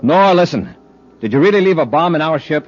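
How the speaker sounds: urgent call. Acted. Commander urgently calls the villain.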